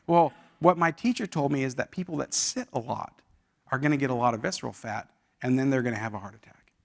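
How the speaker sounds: soft, low imitation of an upset child; retold near tears. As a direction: let it sink quietly, lightly imitating his upset. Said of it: "started to tear up a little bit".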